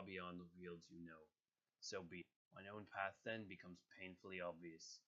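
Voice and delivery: solemn god, grave delivery; Thor voice. Acted. Thor addressing doubters, a hint of a grumble. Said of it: "a little bit of the grumble".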